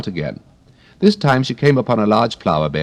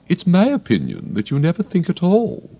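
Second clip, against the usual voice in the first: severe tone; 12 semitones higher than usual. Acted. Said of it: "in a rather severe tone".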